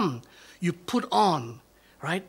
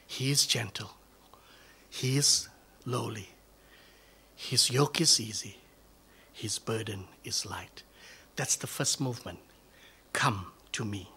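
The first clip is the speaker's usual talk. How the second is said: breathy whisper, much softer and lower; whispered preaching; 5 semitones lower, 5 dB quieter than usual. Acted. Pastor quietly reminding the congregation God is gentle, whispered. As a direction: let the words fall to a hush.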